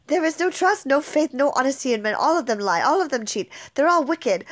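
bitter rant. Acted. Nurse to Juliet, railing bitterly against all men.

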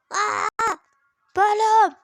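high, loud surprised cry. Real, not acted. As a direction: exclaim in surprise. Surprise at new level.

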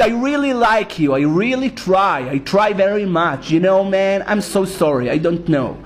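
put-on slow, heavy Israeli accent in English; mock an Israeli stumbling through English, slowly. Rabbi mocking Israelis abroad, in a slow heavy Israeli accent. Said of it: "הם לא יכולים להגיד".

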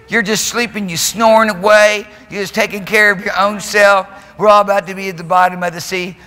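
high, indignant complaint; indignant disciples. Acted. Disciples accusing sleeping Jesus in storm.

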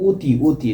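অতি opening with o as in "go"; o-sound in অতি. Shown as a demonstration. Teacher shows students how the word is pronounced, অতি as "oti". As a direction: say অতি as "oti", first vowel a closed o. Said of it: "তাহলে এর উচ্চারণ যা হবে".

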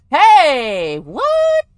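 loud, high exclamation; shocked, squeaky shout; startled outburst. Real, not acted. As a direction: call out, leaping up in pitch. Startled by change in room.

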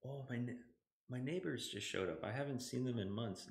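hushed, dropping the voice; quiet. Real, not acted. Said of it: "Now I have to whisper".

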